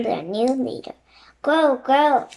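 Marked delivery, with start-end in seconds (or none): 1.4-2.3 croaking. Acted. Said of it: "Rock croaked".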